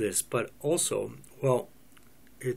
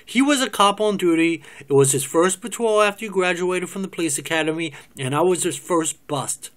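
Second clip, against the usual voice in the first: higher and louder, pushing back hard; heated explanation; 4 semitones higher, 5 dB louder than usual. Acted. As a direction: fire it back defensively, easing at the end. Defensive explanation to Paul.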